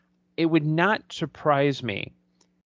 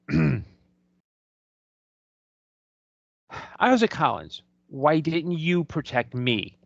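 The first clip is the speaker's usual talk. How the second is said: revenge speech. Shown as a demonstration. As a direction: read it as a cold revenge speech. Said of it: "Frid could have delivered it like this".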